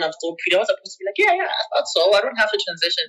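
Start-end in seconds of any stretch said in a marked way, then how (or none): 1.2-3.0 high, bright, offhand "yeah yeah" then dropping back; breezy fake relief, pitched up high at the start; mock relieved self-talk. Telling herself she's fine, high and offhand mock relief.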